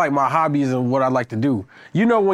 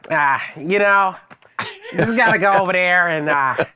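white person voice; 3 semitones higher than usual. Retold or imitated. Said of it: "My white person voice is".

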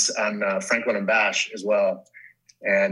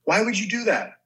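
mild mock Tyson; 6 semitones higher than usual. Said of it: "he's supposed to be like".

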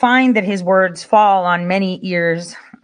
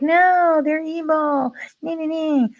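mocking singsong; 8 semitones higher than usual. Mocking the disapproving voices.

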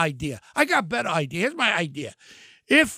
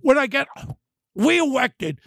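mock lisping governor, slow and sneering; slow mocking lisp on reelected; slower than usual. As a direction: imitate her talking through bad teeth, slowly. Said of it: "your teeth getting away a lot".

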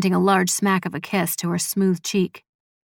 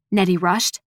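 usual speaking voice

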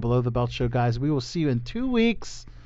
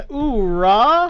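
hyped exclamation; 8 semitones higher, 6 dB louder than usual. Acted. Soundboard-style exclamation.

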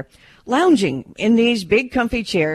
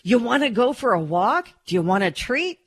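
lilting invitation, pitched up at first; dog-directed speech; 5 semitones higher than usual. Shown as a demonstration. Reporter showing how to offer a dog treats, dog-directed speech. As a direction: coax a dog with eager questions. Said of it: "That is dog-related speech".

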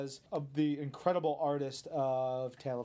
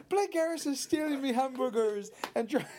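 mock Irish pirate brogue, pitched higher; Lucky Charms pirate accent; 8 semitones higher than usual. Shown as a demonstration. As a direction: ham up a leprechaun pirate accent, half laughing. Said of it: "try it again".

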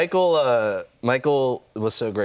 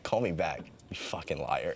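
dropped low and quiet on the insult; muttered aside; 6 semitones lower, 9 dB quieter than usual. Retold or imitated. Calling his girlfriend, mutters the insult quietly. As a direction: mutter the insult under your breath. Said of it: "I called her and I was like".

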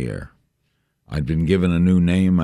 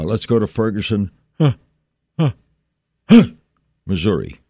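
mock newscaster sneeze; 5 semitones higher, 5 dB louder than usual. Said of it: "We never do that".

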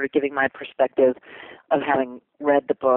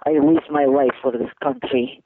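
Olga. Acted. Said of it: "she's a Russian lady".

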